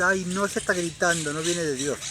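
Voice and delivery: prissy tut-tutting, pitch up; mocking scandalised critic. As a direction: parody a fussy critic clutching pearls. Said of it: "Una ridiculez".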